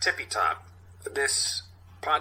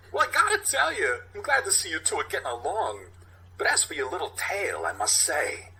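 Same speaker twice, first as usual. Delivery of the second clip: sweaty, smug police captain, higher voice; higher pitched captain needling his men; Captain Ronnie; 6 semitones higher than usual. Acted. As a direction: play the captain lecturing his detectives.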